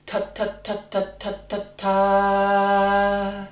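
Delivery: quiet, short detached ta syllables; whisper-light ta ta ta, cut short; soft staccato ta. Shown as a demonstration. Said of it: "it's a kind of a staccato sound".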